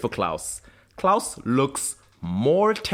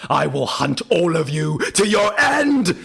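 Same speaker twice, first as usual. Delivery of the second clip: mock threat; 5 semitones higher, 3 dB louder than usual. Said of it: "And he's like".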